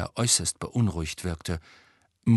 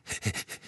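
soft, voiceless chuckle; breath-only malicious snigger; silent laugh; 8 dB quieter than usual. A narrator's reading. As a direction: wheeze a laugh without voice. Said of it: "Filch lachte stumm".

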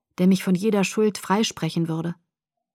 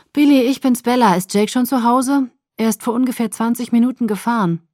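higher, louder, urgent worry; anxious; 5 semitones higher, 6 dB louder than usual. Acted. Bella phones Jake's father in worry, urgent. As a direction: rush it out, scared something happened.

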